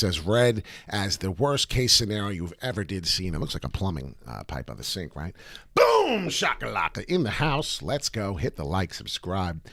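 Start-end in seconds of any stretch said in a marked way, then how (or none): 5.8-7.8 slow, high, hyped-up call; hype catchphrase. Real, not acted. Host hyping viewers with his catchphrase, excited. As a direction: belt the catchphrase like an announcer.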